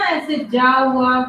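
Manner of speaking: जा said slowly as za; nukta letter demo. Shown as a demonstration. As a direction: drag out जा with a z sound. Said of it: "अपन बिंदी लगाते हैं ना".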